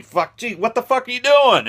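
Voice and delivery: high, loud, indignant squeal; outraged shriek. Retold or imitated. Shark yelling at Brody over the air tank, high outraged shriek. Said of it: "and he".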